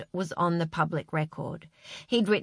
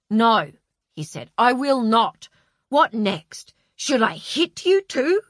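loud, raised angry refusal; 3 semitones higher, 5 dB louder than usual. Acted. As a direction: push back angrily, voice rising. Husband angrily refusing.

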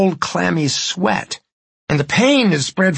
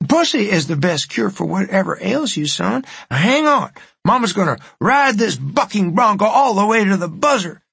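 a higher, teasing woman's voice; lightly voiced seductress; 6 semitones higher than usual. Woman mocking the tied-up man she rides, teasing. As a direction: purr it out like a brazen lover. Crystal voiced, lewd taunting.

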